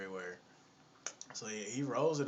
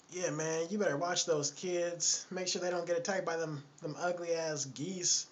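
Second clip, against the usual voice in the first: higher-pitched mock woman's voice; mock nagging warning; 5 semitones higher than usual. Lady warns the man to watch those kids, mock nagging. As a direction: lightly imitate a woman warning him.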